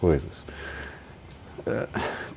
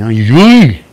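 loud hammed-up "Ai, ai!" cry of pain; pained yelp; 12 dB louder than usual. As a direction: yelp like you just got slapped hard. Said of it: "Fazendo assim". (o fulano gritando de dor, exagerado)

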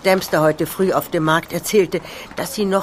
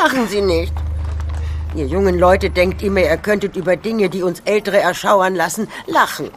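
stern scolding; 2 semitones higher than usual. Acted. Old woman scolds the laughing young man.

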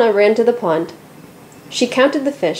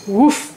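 mild woof. A narrator's reading. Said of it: "the dog barked".

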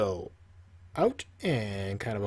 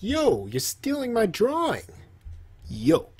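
mock outrage; 5 semitones higher, slower than usual. Mock complaint, high pitch.

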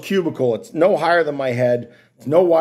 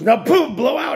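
bossy technician barking an order; high imitation of technician; 11 semitones higher than usual. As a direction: mimic the technician's commands. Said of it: "and then she goes".

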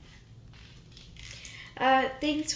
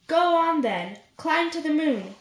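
higher, teasing dare; teasing challenge; 5 semitones higher than usual. Acted. Snake daring the mouse to climb the moon, teasing. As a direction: call the bluff, higher.

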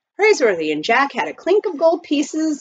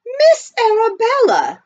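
high, loud, slow hail; amazed calling out; 13 semitones higher, 7 dB louder, slower than usual. A narrator's reading. Butler hails his employer passing by, calling out amazed. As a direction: draw the name out high in amazement.

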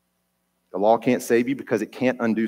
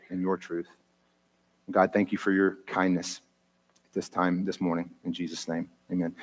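closing prayer; 2 semitones lower than usual. Acted. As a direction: pray it out, steady and reverent.

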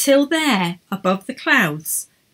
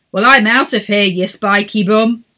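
huffy insult; 6 dB louder than usual. A narrator's reading. Errol storms off.

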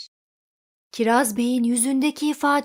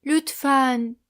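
begging. Acted. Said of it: "diye yalvardı fırın".

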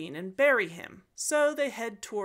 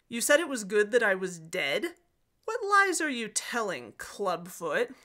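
angry; 3 dB louder than usual. Acted. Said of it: "Turin is getting angry".

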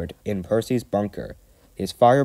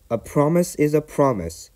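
Percy voice; 6 semitones higher than usual. Acted. Percy character voice.

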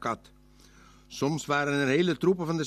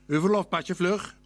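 a touch of a stern officer, higher; stern policeman; 3 semitones higher than usual. A narrator's reading. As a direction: bark the demand lightly. Agent houdt hen aan. (agent Loziek eist streng het verlof op)

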